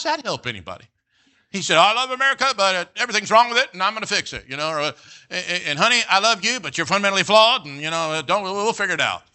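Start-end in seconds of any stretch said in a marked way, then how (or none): 1.8-4.4 mocking politician. 5.3-9.2 mock husband.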